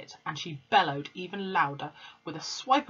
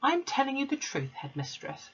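Miss Honey firm; 9 semitones higher than usual. A narrator's reading. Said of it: "she said".

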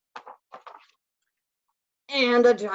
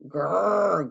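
bear growl; 3 dB louder than usual. Acted. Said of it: "growled Bear".

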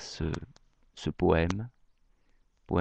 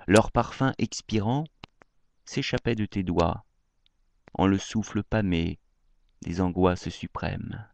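measured poem reading, long pauses between lines; declaimed verse with lifted line openings; poetry recitation; 3 dB louder than usual. Acted. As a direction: recite a love poem line by line, lingering on phrases.

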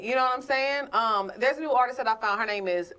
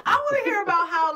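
talking through laughter; laughing; 12 semitones higher than usual. Real, not acted. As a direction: laugh while saying it. Laughing after joke.

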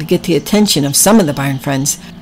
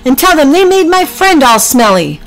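indignant little goose; 10 semitones higher, 3 dB louder than usual. Acted. Geoffrey outraged.

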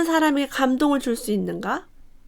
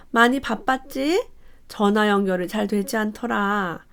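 gentle concern. Shown as a demonstration. Mother gently asking why her child didn't answer, kind. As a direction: ease into it kindly. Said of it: "이렇게 말하는 거".

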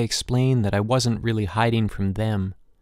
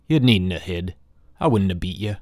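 gentle father; 2 semitones lower than usual. Acted. Father gently reassures hiding son.

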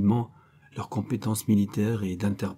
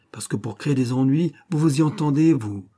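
rising sharp accusation aimed at her; accusing; 5 semitones higher, 5 dB louder than usual. Acted. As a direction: pin her down with scorn. Schiller accuses Madame Kubler.

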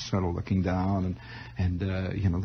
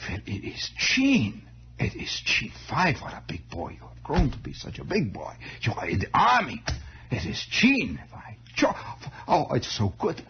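greeting his grown nephew, old Uncle Emil in a hint of German accent; vague German accent; 4 semitones higher, 4 dB quieter than usual. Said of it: "they all had this vague German accent".

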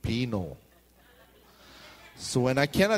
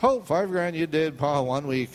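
mock lottery joy; 4 semitones higher, 4 dB louder than usual. Lottery winner drops dead.

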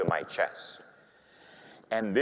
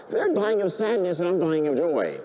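ordinary talk

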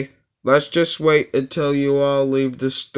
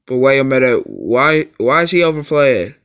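alarmed; 5 dB louder, faster than usual. Acted. Alarmed at overflated letter.

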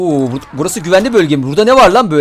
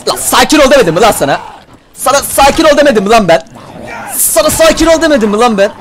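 scolding; 5 semitones higher than usual. Pretend. Scolds attacking zombie, building.

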